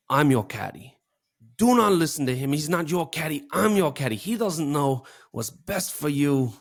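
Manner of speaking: imitating a Jamaican caddy, badly and on purpose; grumpy Jamaican caddy insisting on being listened to, in a bad Jamaican accent; terrible Jamaican accent. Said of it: "That was a terrible Jamaican accent".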